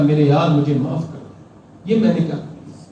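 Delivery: a hushed, shaken cry for forgiveness; trembling plea. Retold or imitated. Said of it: "کہتے میں کانپ گیا".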